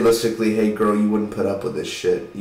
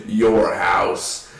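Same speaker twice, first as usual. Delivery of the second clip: mock shout; 4 semitones lower than usual. Echoing the shriek.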